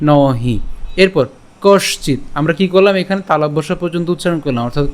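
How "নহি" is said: "নহি" said carefully as two open syllables; careful pronunciation. Shown as a demonstration. Teacher showing how the verse opens, careful pronunciation of "নহি". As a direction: model "নহি" distinctly for learners. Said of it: "উচ্চারণটা কেমন হচ্ছে?".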